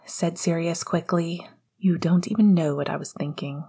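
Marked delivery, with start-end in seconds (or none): 1.8-3.6 sullen. Acted. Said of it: "he added sullenly".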